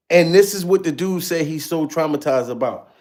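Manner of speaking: ordinary talk, nothing marked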